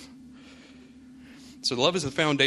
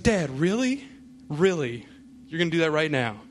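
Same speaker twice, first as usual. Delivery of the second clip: exasperated son; 3 semitones higher than usual. Retold or imitated. Son reacts to dad's fart.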